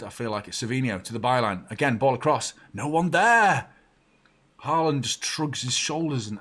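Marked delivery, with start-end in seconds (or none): 2.7-3.7 high, loud frustrated cry; exasperated, raised-voice complaint; exasperated shout. Real, not acted. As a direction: yell it in frustration at the wasted cross. Cross finds nobody.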